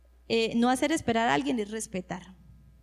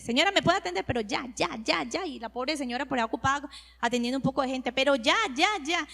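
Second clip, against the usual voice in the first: mock impatient customer; faster than usual. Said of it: "todo lo queremos express".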